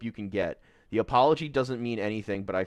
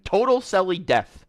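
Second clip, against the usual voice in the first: gleeful proclamation; 8 semitones higher, 7 dB louder than usual. Real, not acted. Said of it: "is what I say".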